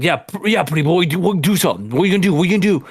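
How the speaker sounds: high, goading mock taunt; taunting drunk guy. Drunk guy taunting the pool worker, mocking challenge. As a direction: egg him on like a drunk bully. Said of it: "He's like".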